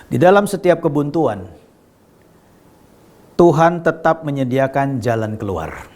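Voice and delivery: deliberate, with a long pause midway; measured key statement. Real, not acted. Preacher asking listeners to hear this well, measured statement. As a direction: state it calmly and let it sink in. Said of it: "dengar baik-baik".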